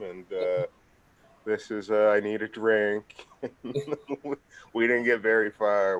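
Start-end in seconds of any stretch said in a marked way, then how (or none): 2.1-3.3 slow, careful mock phrase; sounding out a phrase like bad French; mock French attempt. Joking with a coworker, slow mock French. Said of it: "I'm like".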